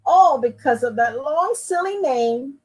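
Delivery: sniffling. Acted. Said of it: "sniffled Papa".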